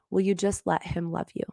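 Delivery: soft, tender question; gentle plea. Retold or imitated. Coach gently urging her to accept love, soft and tender. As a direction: ask it quietly, like a caring coach. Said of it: "he said it like this".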